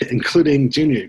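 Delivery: laughing through the words. Real, not acted. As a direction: chuckle while saying it. Laughing while recounting confusion.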